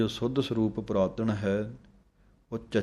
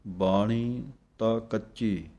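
ਤਾਂ pressed a little, slow; slow phrase with a touch of weight on ਤਾਂ; slight stress on ਤਾਂ; slower than usual. Shown as a demonstration. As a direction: give ਤਾਂ a small push. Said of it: "ਇੱਥੇ ਥੋੜ੍ਹਾ ਜਿਹਾ ਜਮਕ ਲਗਾਉਣੀ ਹੈ".

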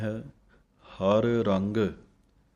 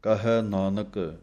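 ਕਹੈ ਨਾਨਕ with a clear pause after it; slower than usual. Shown as a demonstration. Teacher showing students to pause after ਕਹੈ ਨਾਨਕ. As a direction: say ਕਹੈ ਨਾਨਕ then stop briefly. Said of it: "ਥੋੜ੍ਹਾ ਰੁਕ ਕੇ".

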